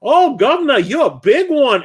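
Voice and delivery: high, put-on flirty cockney woman; hammed-up flirty lady of the night; mock Victorian streetwalker. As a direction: coo it like a saucy London streetwalker. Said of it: "She goes".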